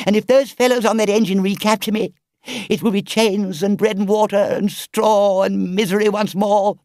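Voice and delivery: high, loud begging Toad, slowing at the end; desperate pleading. Acted. Toad on his knees begging the engine driver, desperate. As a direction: beg for rescue in full self-pity.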